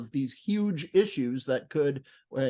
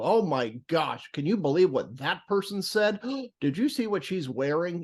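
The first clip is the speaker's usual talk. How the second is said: scandalized gossip, higher pitch with a gasp; mock outrage; 3 semitones higher than usual. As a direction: parody someone shocked by trivia. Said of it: "I call it the outrage industrial complex".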